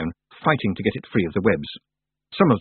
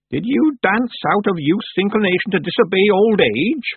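put-on higher, louder stern old witch scolding; an old witch lecturing the girl gravely; solemn old witch; 9 semitones higher, 4 dB louder than usual. Miss Treason scolds solemnly.

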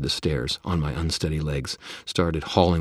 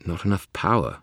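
Bob's voice; 3 semitones higher, 5 dB louder than usual. Acted. Bob character voice.

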